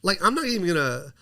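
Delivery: indignant boast, pitched high; real frustration rising into a high-pitched brag; worked-up, mad. Real, not acted. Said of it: "I'm sorry to get mad right now".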